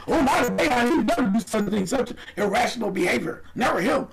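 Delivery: high-pitched sarcastic protest; sarcastic, singled-out mock defence; mock disbelief. Mock defence of Boeheim's son.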